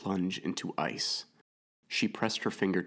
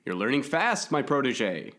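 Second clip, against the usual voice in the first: high, loud teasing yell; playful shout; 6 semitones higher, 5 dB louder than usual. A narrator's reading. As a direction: call it out grandly over the wind. Shouting over wind while cycling.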